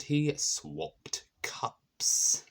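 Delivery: slow breathy reveal whisper; a hushed, slowed-down reveal; dramatic whisper. Acted. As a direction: let the twist slip out in a whisper.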